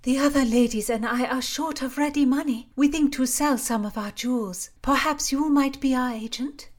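high, loud gossip; a lady-in-waiting gossiping to Constance, high and loud. Acted. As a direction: spill the news eagerly. Lady asks a favour.

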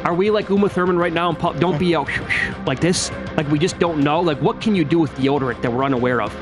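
ordinary delivery

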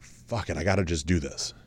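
softly, under the breath self-talk; quiet retold resolve. Podcaster recalls psyching himself up in the driveway, quiet resolve. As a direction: drop low in volume, as if talking yourself into it.

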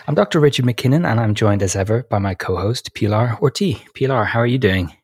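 slightly throaty, just woke up hoarse; a bit of a rough morning throat. Real, not acted. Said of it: "you sound a little bit throaty".

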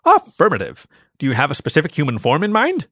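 a device snapping to attention; machine voice. Acted.

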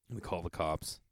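ordinary delivery

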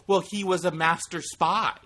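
mom's proud-sounding reveal, lightly imitated; mom imitation. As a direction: raise the pitch to imitate mom. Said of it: "I'm doing an imitation of my mom's voice".

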